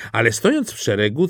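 ordinary delivery

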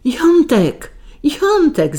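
high, wailing call for her husband; narrated scream, pitched far up; crying out. A narrator's reading. Beaten wife calling her husband, crying out. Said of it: "zakrzyczała pani Komnacka".

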